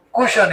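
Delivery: કુશન said as kushan, with no kw and no ch; foreign pronunciation. Retold or imitated. Teacher showing students how foreigners say question, as કુશન. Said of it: "ક્વેશ્ચન word નો બોલે".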